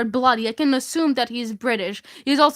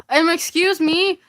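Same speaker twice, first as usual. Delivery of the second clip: yelling over music; 3 semitones higher than usual. Retold or imitated. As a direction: call out to a stranger over the noise. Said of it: "I yelled through the deafening music".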